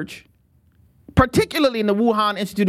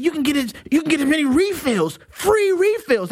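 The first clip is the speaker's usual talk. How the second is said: excited tourist; 6 semitones higher than usual. Retold or imitated. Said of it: "And he said".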